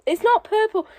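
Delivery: "not" punched high and loud in "It's not purple"; stress on NOT. Real, not acted. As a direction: hit "not" hard, pitch jumping up. Third insistence on colour.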